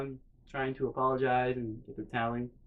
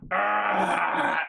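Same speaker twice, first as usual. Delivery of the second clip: long, higher "ah" mimicking a burp; imitated burp; 5 semitones higher, 3 dB louder than usual. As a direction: act out a big burp. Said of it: "I have to take a burp break".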